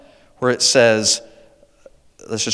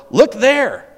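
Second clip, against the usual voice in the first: higher, louder mock call of a sensational preacher; mock false teacher; 10 semitones higher, 6 dB louder than usual. Preacher mocking false prophets calling out, higher and louder. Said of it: "sensational teaching, saying".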